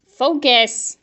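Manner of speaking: drawn-out, exasperated yell; yelling at camera. Real, not acted. Host to an unfocused camera, yelling. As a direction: call it out slowly and firmly at a stubborn device. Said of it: "I'm yelling at my camera".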